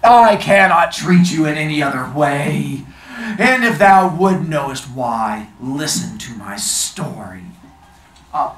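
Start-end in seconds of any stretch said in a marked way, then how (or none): 0.0-7.4 loud, slow stern genie. Acted. Genie refuses the fisherman.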